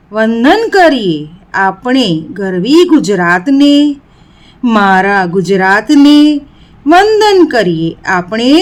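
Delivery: measured poem reading, a pause after each phrase; lightly declaimed classroom verse; poem recitation. Acted. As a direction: recite it line by line for pupils.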